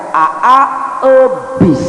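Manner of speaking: put-on a childish lisp on ebis; lisping cadel speech. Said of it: "ngomongna teh cacadelan".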